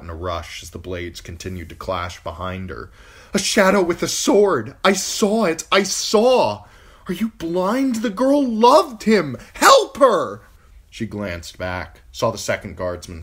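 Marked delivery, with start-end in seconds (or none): 3.3-10.4 high, loud frantic cry; wild crazed shout. Acted. Catelyn frantically shouting to the guards for help. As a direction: shriek it out in a panicked rush. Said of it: "Her own voice sounded wild and crazed".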